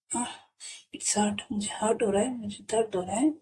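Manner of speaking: breathless whisper of pain; hurt whisper. Acted. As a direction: whisper it, wincing from the slap. Character hurt after being slapped. (दर्द भरी फुसफुसाहट)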